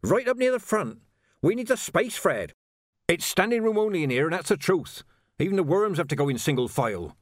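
very high-pitched, eager pleading. A narrator's reading. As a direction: wheedle him, pitch leaping way up. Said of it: "Ledgy pleaded".

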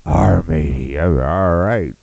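a mild pirate growl. Acted. Comic imagining the woman talking like a pirate, mild pirate accent. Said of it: "sounded like that to you".

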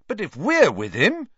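loud, spirited and bold. A narrator's reading. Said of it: "said Ron spiritedly".

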